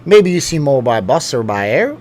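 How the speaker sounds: hammy attempt at an Aussie accent; badly faked Australian accent. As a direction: put on a clumsy Australian accent. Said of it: "do it in a bad Australian accent".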